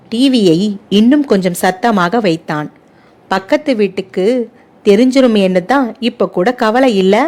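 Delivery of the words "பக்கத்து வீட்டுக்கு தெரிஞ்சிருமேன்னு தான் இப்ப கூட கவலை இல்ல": usual speaking voice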